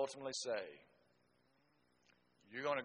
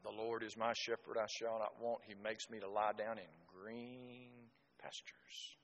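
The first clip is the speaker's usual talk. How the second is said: gentle psalm; 6 dB quieter than usual. Retold or imitated.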